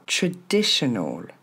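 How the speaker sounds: TRADITIONAL as "tre-DI-she-nol", slowly; model pronunciation. Shown as a demonstration. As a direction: neutral first vowel, falling "ol". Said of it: "c'est pas un A au début".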